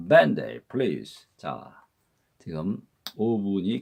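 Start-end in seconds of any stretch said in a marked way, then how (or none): 0.1-1.3 밴데이 플리즈 with 밴데이 rising then falling in one smooth arc; 밴데이 플리즈 linked and quick, peaking on 밴데이; parabola linking. Shown as a demonstration. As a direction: say 밴데이 플리즈 fast in one arching sweep. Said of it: "포물선 발음법 밴데이".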